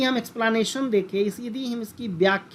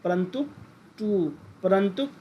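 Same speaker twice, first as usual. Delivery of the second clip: slow clear reading; 2 semitones lower than usual. Shown as a demonstration. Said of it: "इस तरह से इसको परंतुक बोलते हैं".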